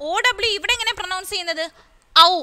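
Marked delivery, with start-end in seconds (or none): 2.3-2.3 ഔ said as the gliding "ow" of how; OW sound demo. Shown as a demonstration. Teacher showing pupils the OW in how, pronunciation demo. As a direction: sound out ഔ, ah sliding into oo. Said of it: "ഔ എന്ന രീതിയിലാണ് pronounce ചെയ്യുന്നത്".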